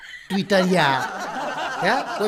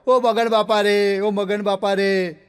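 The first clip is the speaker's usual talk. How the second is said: hammed-up mourner's wail; mock wailing; slower than usual. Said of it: "એક જણો રડવા માંડ્યો".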